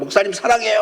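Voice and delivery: high-pitched imitation of tipsy teens; tipsy kids. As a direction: imitate kids gushing affection after drinking. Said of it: "막 술 먹고 오고 얼굴 시뻘개져가지고".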